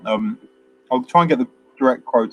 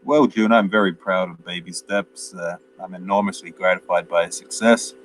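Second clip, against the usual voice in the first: very calm. Retold or imitated. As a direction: mildly imitate someone calmly practising an interview line. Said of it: "he's very calm. He's like".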